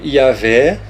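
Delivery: "Yahvé" slow, with V and open E; "Yahvé" as ya-VEH, evenly spaced; altered pronunciation. Shown as a demonstration. Teacher listing invented names for viewers, "Yahvé" slowly with a V. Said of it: "o que que eles inventaram mais".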